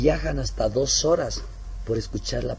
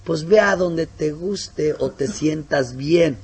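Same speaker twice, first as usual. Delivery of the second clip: mock lax advice; 3 semitones higher, 3 dB louder, slower than usual. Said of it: "lo importante no es que esté".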